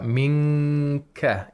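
"Minka" with a held nasal "ng" before ka; ikhfa. Shown as a demonstration. Reciter shows the way the sheikh does the ikhfa, nasal hold. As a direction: hum the hidden n in "Minka", then release ka. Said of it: "he does the ikhfa".

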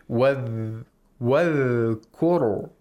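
ra held thick without a bounce in "wal-kuru"; slow, drawn-out thick ra in "wal-kuru"; correct tajweed. Shown as a demonstration. Reciter shows listeners the sheikh's way with ra, correct tajweed. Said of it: "he pronounces all of them correctly".

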